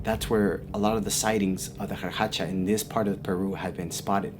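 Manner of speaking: low, soft and grave; ominous warning. Retold or imitated. Lady shows where the creature is seen, low and ominous. Lady's eerie warning in story.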